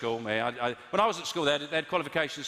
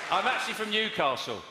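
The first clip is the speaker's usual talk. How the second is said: mock Newcastle accent; 5 semitones higher than usual. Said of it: "He said".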